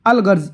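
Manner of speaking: "अल गर्ज" with the l of अल sounded; laam pronounced. Shown as a demonstration. Teacher showing a qamari example, "अल गर्ज" with l pronounced. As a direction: read "अल गर्ज" keeping its laam audible. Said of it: "इसमें भी हमने लाम को पढ़ा है".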